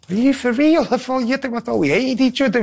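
high-pitched retold astonishment; mock disbelief. Boxer reacting to Enzo's friendly welcome, high mock disbelief. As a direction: play up baffled surprise, pitched right up.

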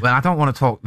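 put-on a second go at "Well, I don't wanna talk" in a Welsh accent; lightly Welsh, impersonating the manager; attempted Welsh accent. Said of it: "Bit more Welsh".

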